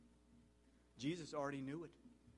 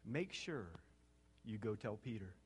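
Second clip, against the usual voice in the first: tender; 5 semitones lower, 5 dB quieter than usual. Acted. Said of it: "Don't you love the tenderness here?".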